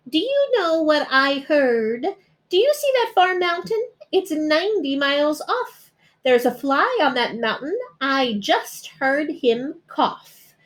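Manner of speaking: high, eager rabbit voice; boastful rabbit. A narrator's reading. Rabbit bragging to the bear about his hearing. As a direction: crow about his sharp ears.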